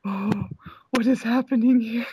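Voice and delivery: mild breathless mock panic; trying to breathe. Cosplayer retelling hands on knees, trying to breathe. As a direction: act out struggling for breath. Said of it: "trying to breathe".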